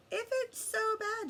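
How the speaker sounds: high, slow doubting question; skeptical question. A narrator's reading. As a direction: ask it in disbelief.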